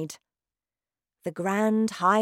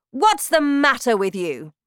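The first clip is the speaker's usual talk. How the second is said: shouting witch; 7 semitones higher, 9 dB louder than usual. Acted. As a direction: bellow like a terrifying witch queen. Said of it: "she shouted".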